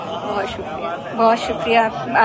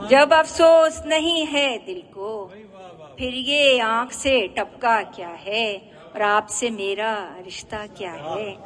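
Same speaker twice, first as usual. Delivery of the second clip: poetry recitation; slower than usual. Acted. Poet closing her ghazal before an applauding audience, poetry recitation. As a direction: recite the verses in measured, sustained phrases.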